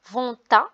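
"vonta" with the T linked onto "à", said as one word; liaison demo. Shown as a demonstration. Teacher showing pupils the liaison, "vonta" run together. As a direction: join "vonta" clearly, T sounded. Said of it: "attention aussi à la liaison".

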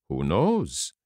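mild, unhurried reply at everyday pitch; calm. Acted. Geppetto answers the angry puppet, calm. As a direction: answer evenly, without rising to his temper. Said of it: "repeated Geppetto calmly".

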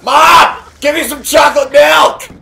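demanding chocolate milk from mom, shouting; calling to mom. Acted. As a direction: yell for Mom like a spoiled kid.

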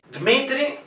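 Dmitri with D straight into M; no I between D and M in Dmitri; no vowel in DM. Shown as a demonstration. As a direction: model Dmitri's consonant cluster. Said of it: "entre la D y la M no tiene I".

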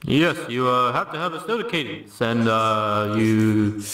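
lightly attempted presidential impression with halting pauses; a hint of a halting statesman; Barack Obama. Comic trying a lapsed impression, halting Obama attempt. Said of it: "I can't do Obama anymore".

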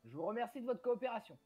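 mildly official public appeal; formal speech. Acted. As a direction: address villagers in measured, formal sentences. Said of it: "je vais faire le discours". (appel officiel aux villageois, légèrement joué)

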